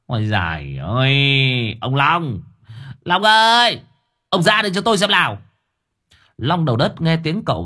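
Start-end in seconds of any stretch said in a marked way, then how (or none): 0.1-5.4 building to a high, loud, fast shout. Acted. Master yells for Long to come out, high and loud. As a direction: bellow for Long across the yard. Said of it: "miệng cậu đã choa choa".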